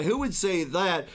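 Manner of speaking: normal talking voice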